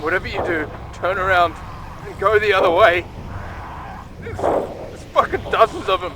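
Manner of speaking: wounded soldier gasping. Acted. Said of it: "earlier reader: wounded soldier gasping".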